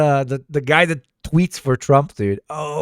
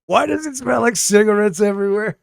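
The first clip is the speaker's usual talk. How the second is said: lightly put-on, higher politician voice; imagined politician's complaint; 9 semitones higher, 3 dB louder than usual. Imagined leader asking about the cigarette smell, lightly mimicked complaint. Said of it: "Imagine he's like".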